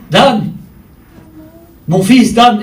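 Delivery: loud retold yell of his son's name; father calling his lost son loudly. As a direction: shout the name across the parking lot. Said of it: "je commence à crier".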